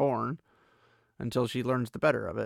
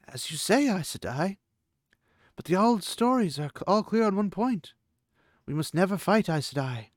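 Aviendha voice; 5 semitones higher than usual. A narrator's reading.

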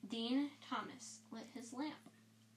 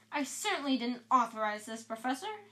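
indignant; 5 dB louder than usual. Acted. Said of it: "puffing himself indignantly".

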